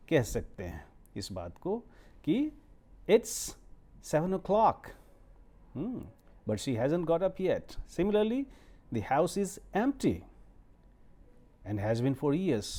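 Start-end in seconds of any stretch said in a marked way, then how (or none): 3.1-12.7 English sentences demoed with a rising tune. Shown as a demonstration. Teacher demonstrating rising tone to students. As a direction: lift the pitch at the end of each phrase. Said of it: "इस तरह से rising tone में".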